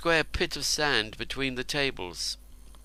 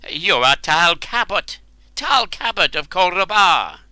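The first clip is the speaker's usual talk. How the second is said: desperate pleading; 7 semitones higher, 9 dB louder than usual. A narrator's reading. Terrified man pleads identity.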